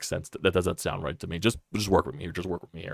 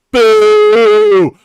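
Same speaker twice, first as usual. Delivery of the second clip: long, loud, much higher boo from the stands; 17 dB louder than usual. Pretend. Fed-up fan booing his underachieving team, loud drawn-out boo. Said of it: "That's what I'd be fucking doing out there".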